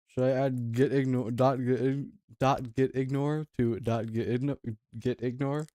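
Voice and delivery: talking through a mouthful of food; words garbled around a bite; mouth full. Real, not acted. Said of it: "Sorry, my mouth's full".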